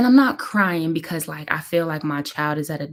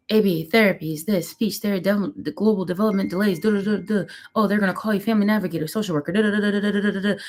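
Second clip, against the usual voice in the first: imitated blur of information; 4 semitones higher, faster than usual. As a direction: rattle off jargon, dissolving into duh-duh filler. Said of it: "it just sound like".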